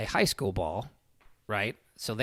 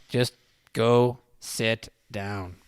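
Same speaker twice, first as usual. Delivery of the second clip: slow, word-by-word command; calm, deliberate order; 4 dB louder, much slower than usual. Retold or imitated. Dad refusing to escalate with the cop, deliberate. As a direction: space out each word firmly.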